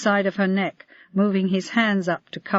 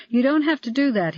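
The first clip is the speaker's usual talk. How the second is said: higher-pitched mild protest; 6 semitones higher than usual. A narrator's reading. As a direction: object gently, lifting the pitch. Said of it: "he protested".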